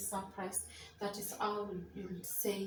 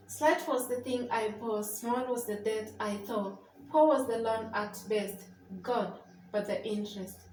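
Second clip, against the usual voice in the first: poem reading. Shown as a demonstration. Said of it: "how would you say the last line of the poem".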